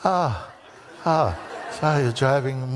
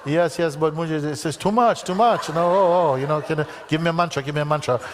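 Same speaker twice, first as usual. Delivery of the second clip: a touch higher, hammed-up begging; pleading for a mantra, half-laughing; mock overwhelmed pleading; 3 semitones higher, faster than usual. Student begging guru.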